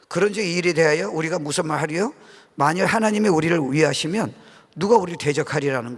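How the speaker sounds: formal scripture recital; scripture reading. Acted. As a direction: read the Bible aloud to the congregation. Reads Romans 8 aloud.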